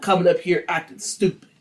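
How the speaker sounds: loud, indignant scolding; going off. Acted. Wife telling off her drunk husband, angry scolding. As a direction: scold him loudly. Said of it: "So she goes off".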